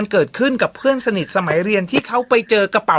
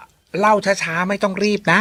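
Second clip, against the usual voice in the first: drawn-out, unhurried instruction; slow, unhurried; slower than usual. Retold or imitated. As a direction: relay it slowly and easily.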